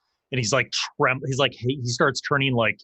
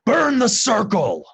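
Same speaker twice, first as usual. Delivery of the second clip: much higher, louder, slow decree; triumphant command; 11 semitones higher, 6 dB louder, slower than usual. Acted. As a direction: proclaim it to the whole tribe. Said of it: "he smirks".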